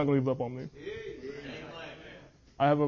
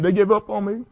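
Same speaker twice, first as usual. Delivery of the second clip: higher, strained retelling of a sob; quoting a crying man; 6 semitones higher, 5 dB louder than usual. Retold or imitated. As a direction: voice the athlete's despair, lightly. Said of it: "he's bawling, he's crying".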